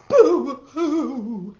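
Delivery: playful fake boo-hoo sob; mock crying boo-hoo. Reading to children, little boy's pretend crying. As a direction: sob it out for the kids, half laughing. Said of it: "and so he cried".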